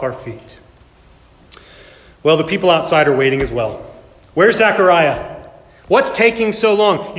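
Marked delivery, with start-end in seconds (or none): 4.3-7.2 murmuring crowd. Acted. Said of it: "You can hear the murmuring".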